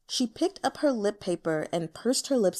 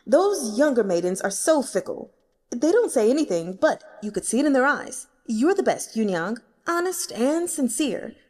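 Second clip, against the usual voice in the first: put-on loud, doting old customer; doting old man; 3 semitones higher, 4 dB louder than usual. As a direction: flatter her like an old client. Elder character voice.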